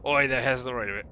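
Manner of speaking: a tree calls out, pleased; loud tree voice. Acted. Voicing tree character.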